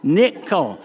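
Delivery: "Nick Cole" as two separate words; phonetic pronunciation. Shown as a demonstration. Repeating the name for the congregation, "Nick Cole" split in two. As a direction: stress both halves, "Nick" and "Cole". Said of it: "she's very phonetic in nature".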